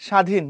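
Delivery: স্বাধীন said "shadhin", no b or v; silent bofola. Shown as a demonstration. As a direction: drop the bofola in স্বাধীন, just a plain sh. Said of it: "বফলার উচ্চারণ নাই".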